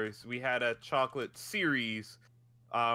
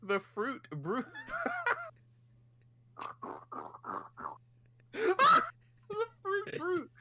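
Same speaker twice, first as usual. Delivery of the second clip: slow, high words through laughter; helpless laughing; much slower than usual. Real, not acted. Cohost repeating the silly cereal name, helplessly laughing. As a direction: barely get the name out for laughing.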